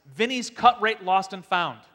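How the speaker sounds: slow, loud cheesy ad read; ad announcer. Acted. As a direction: sell it like a cheap radio ad. Reading spoof ad.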